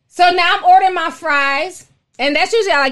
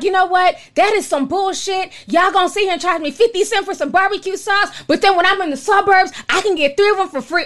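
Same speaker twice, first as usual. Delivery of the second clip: going off; 5 semitones higher than usual. Retold or imitated. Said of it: "I went off on dude".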